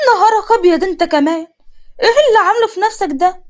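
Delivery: stunned at the pot on his head; shocked. Acted. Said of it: "سندس بصدمة". (صدمة بصوت عالي)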